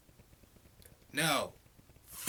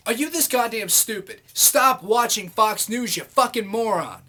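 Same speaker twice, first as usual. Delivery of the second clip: angry outburst; 4 dB louder than usual. Real, not acted. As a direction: spell out each word at the fool. Ranting at a commenter.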